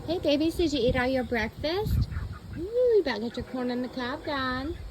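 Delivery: talking to pets. Real, not acted. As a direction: coo at the chickens. Chatting to the chickens.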